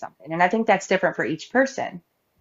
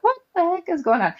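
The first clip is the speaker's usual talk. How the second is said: mock shock; 10 semitones higher, faster than usual. Disciples voiced in retold scene.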